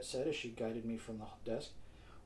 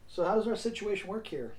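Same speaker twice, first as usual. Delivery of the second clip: raised, louder call through a door; calling to the bathroom; 7 semitones higher, 7 dB louder than usual. A narrator's reading. Vaughn calls out to Yvette in the bathroom, raised voice. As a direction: call it out to someone in the next room. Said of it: "I called her in the bathroom".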